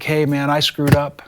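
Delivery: retold calm apology; level, understated calming voice. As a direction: gently talk an upset kid down. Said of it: "I said in a very calm voice".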